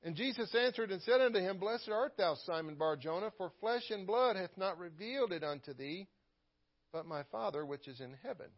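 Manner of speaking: measured, lifted King James reading; scripture reading. Acted. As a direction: read the verses with weight and reverence. Reads scripture aloud in sermon.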